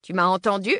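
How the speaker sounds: put-on gruff old man giving orders. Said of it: "Il a vraiment une voix de vieux".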